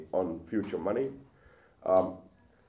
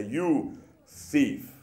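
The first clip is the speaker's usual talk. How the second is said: mock outrage. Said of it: "storm out at him and say".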